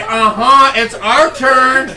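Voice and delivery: high, slow cheerleader call; a touch of sassy cheer-squad chant; mock cheerleader. Host speaks for challengers claiming their turn, mock cheerleader call. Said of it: "you are at a cheerleading competition".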